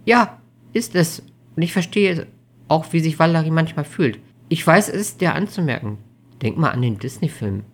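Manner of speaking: a hint of an anxious girlfriend; anxious young woman. Amelie's voice in dialogue.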